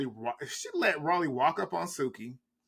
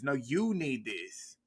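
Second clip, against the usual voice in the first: slow mock Scarface; 4 dB quieter, slower than usual. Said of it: "She said it to Suki too".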